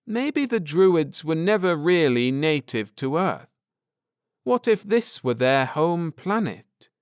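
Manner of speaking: earnest scholar laying out history; Ned, earnest. Acted. Ned explaining the Druids to his wife, lightly voiced earnest man.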